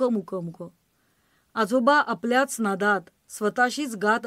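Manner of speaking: poem recitation. Acted. Reciting a poem about grandfather, tender verse recital. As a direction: recite with the fog refrain fading away.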